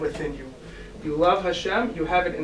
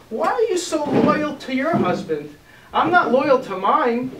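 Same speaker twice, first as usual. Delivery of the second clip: slow, higher, slyly confiding mother; mother's confession; 6 semitones higher, 3 dB louder, slower than usual. Acted. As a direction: let the mother's secret slip out slowly. Mother confides to daughter, overheard.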